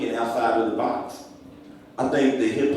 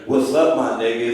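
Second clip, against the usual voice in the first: easy, friendly hello between buddies; friendly greeting. Retold or imitated. Greeting my man Andrew Jackson, casual and friendly. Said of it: "it's not the same thing as me walking up to him with a whip".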